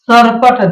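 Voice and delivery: सरपट with the tongue touching the teeth on s; dental s. Shown as a demonstration. Teacher showing where sa is made, careful dental s in सरपट. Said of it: "दांत को touch करता है".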